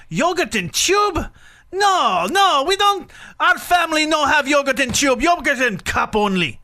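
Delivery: put-on outraged high-pitched Russian accent, building in volume. Dad embarrassing his daughter in the store, ranting in Russian accent. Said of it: "got louder and louder".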